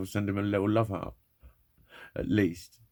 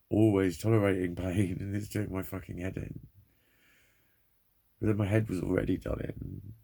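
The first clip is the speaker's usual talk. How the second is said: normal talking voice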